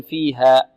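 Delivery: فيها ending on an open "aa"; فيها with no final hamza; open alif ending. Shown as a demonstration. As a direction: let the end of فيها fade without a catch. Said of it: "لا ننهي الألف بهمزة، نقول فيها".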